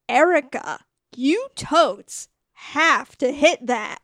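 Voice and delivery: put-on slow, drawn-out girl-talk insistence; mock urging. Daughter and sister urging Erica, mock insistence. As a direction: egg her on, hammed-up.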